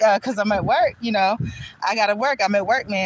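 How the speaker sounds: "work" leaned on with extra weight; stress on work. Retold or imitated. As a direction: punch the word "work" each time. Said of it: "he was emphasizing the word work".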